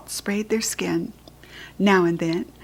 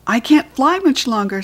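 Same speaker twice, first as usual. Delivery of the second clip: panting; 3 semitones higher, 5 dB louder than usual. Acted.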